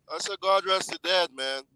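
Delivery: speaking up. Real, not acted. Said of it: "if you can speak up".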